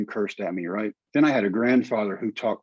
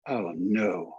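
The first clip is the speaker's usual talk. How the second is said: low, quieter 'oh, no'; dawning dread; 4 semitones lower, 4 dB quieter than usual. Retold or imitated. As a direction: let the realization sink in, pitched low. Realizes he must try out.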